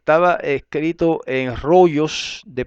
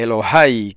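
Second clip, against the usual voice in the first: Elohai with a louder final A; stress on A; 5 dB louder, slower than usual. Shown as a demonstration. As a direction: say Elohai as e-lo-HAI. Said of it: "lleva acento en la A".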